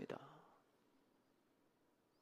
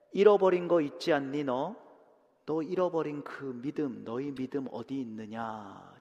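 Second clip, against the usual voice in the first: gentle searching question. Acted. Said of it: "질문하시는 겁니다".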